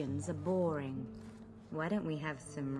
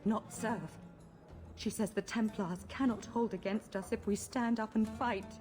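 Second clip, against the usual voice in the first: anxious confession; 4 semitones higher than usual. Acted. Frightened mage blurts out the plot.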